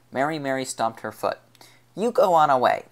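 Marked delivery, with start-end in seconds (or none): 1.9-2.9 put-on loud high child's demand. A narrator's reading. Little girl orders the gang away, high loud demand. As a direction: order them away, loudly. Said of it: "she demanded".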